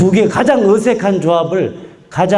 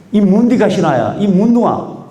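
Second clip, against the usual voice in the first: Gyeongsang dialect; 4 semitones higher than usual. Retold or imitated. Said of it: "이런 말 할 때 제일 아름답다고".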